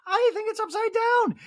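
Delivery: very high mock voice; high prying question; Dorit impression. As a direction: fuss in a high falsetto. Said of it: "Dorit's like".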